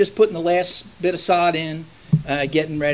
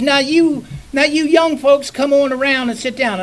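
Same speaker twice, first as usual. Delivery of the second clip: lightly voiced mother-in-law, pitched higher; mother-in-law's invitation; 5 semitones higher than usual. Preacher imitating mother-in-law calling folks to the table, lightly higher voice. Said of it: "and she says".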